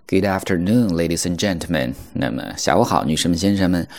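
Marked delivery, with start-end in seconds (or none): 0.1-1.9 airport announcement. Shown as a demonstration. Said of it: "我们来看一下这儿的一个事例".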